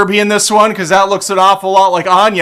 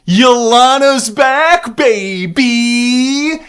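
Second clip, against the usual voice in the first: much higher, slow hype call; excited hype; 6 semitones higher, much slower than usual. Real, not acted. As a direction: cheer her return. Hyping a returning character.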